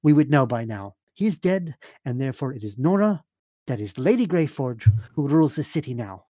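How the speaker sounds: lightly voiced stern noblewoman; formal, firm in-character correction; Serafina. Game master voices Serafina.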